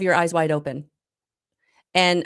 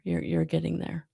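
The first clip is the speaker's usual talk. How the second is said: soft whispered reassurance; gentle whisper, no voice; 7 dB quieter than usual. Real, not acted. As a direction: breathe it like a secret encouragement. Encouraging the viewer.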